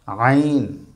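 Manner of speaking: আইন squeezed from mid-throat, long vowel; pressed throat sound. Shown as a demonstration. Teacher models Arabic letter, pressed throat sound. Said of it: "মাঝখানে চাপ দিয়ে পড়তে হবে".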